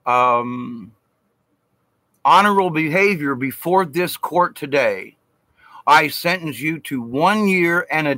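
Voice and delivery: measured, formal imitation of a judge from the bench; judge passing sentence. Judge reducing the speaker's sentence, mildly imitated formal delivery. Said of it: "And then he said".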